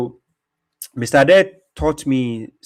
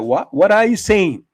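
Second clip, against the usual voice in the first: confused reply; 8 semitones higher, 6 dB louder than usual. Retold or imitated. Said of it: "They'll be like".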